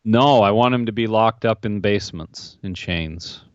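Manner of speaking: dry, matter-of-fact sarcastic reply; deadpan sarcasm. Pretend. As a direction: play the absurd answer straight. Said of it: "That's sarcasm alert".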